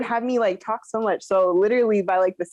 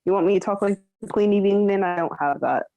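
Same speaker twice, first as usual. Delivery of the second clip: lower, lightly voiced British maid; British maidservant accent; 4 semitones lower than usual. Shown as a demonstration. Admitting she can't do the Queen, British maidservant accent. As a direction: put on a humble servant's British accent. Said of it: "some random maid servant".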